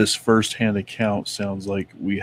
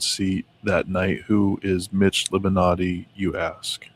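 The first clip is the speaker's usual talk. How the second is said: robot voice. Real, not acted. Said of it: "I read that like a robot".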